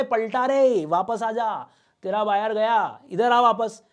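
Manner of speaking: lightly acted holler; calling someone back. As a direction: act out summoning the truck to turn round. Acting out calling back the courier.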